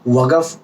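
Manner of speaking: वक़फ़ said slowly with a clear q sound; वक़फ़ as a teacher models it; Arabic word demo. Shown as a demonstration. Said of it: "रुको को अरबी में बोलते हैं वक़फ़".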